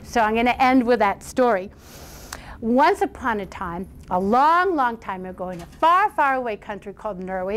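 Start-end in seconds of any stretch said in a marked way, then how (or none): 2.6-7.6 fairy tale opening. A narrator's reading. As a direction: open the tale like reading to children. Storyteller opens the tale.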